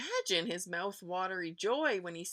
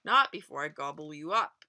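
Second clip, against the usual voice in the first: booming troll; 4 dB louder than usual. Acted. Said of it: "Troll booms from below".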